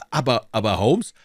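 stammered, rising objection; hesitant protest. A narrator's reading. Watson balks at hiding behind the sickbed, hesitant protest.

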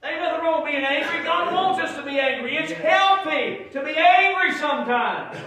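high, loud preacher voice; full-force preaching. Real, not acted. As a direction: drive it home to the congregation, pitch climbing as you go.

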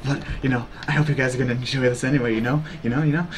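low, soft seductive murmur; sultry mistress. Pretend. Streamer playing requested role to chat, sultry. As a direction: linger suggestively, with low little laughs. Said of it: "now you're sultry misters too".

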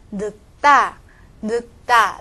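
늙다 as 늑따, ㄹ silent; pronunciation review. Shown as a demonstration. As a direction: stop on k, then a tense 다 in 늙다. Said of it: "把这个现象来读一遍". (复习示范：늙다读成늑따)

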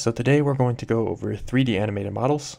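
tired, just-woke-up voice; sleepy husky good morning. Real, not acted. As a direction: sound sleepy, like you just got out of bed. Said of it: "Sorry if I sound a bit tired".

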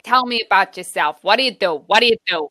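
lightly voiced eccentric lady. Imitating a New York loft lady questioning her guest, lightly voiced eccentric lady. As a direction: lightly put on an eccentric lady quizzing you. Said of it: "where she's like".

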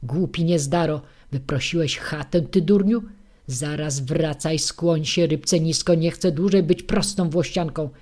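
loud, demanding scolding; bully him into obeying; greedy wife shouting orders at husband; shouting old woman. Acted.

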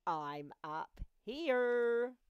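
loud, very slow stretched-out call. Acted. Friend calls down from sky.

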